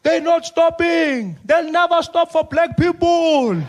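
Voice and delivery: high, loud, slow panicked plea. Acted. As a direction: beg in a high frantic voice. Spiwe panicking on roadside.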